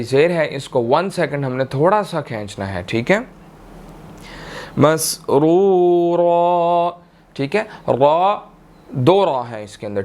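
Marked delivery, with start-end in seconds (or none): 4.8-6.9 slow "मसरूरा" with full thick r; "मसरूरा" drawn and thick; heavy ra. Shown as a demonstration. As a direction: give "मसरूरा" heavy r's and long u. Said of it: "इस रा को भी मोटा अदा करेंगे".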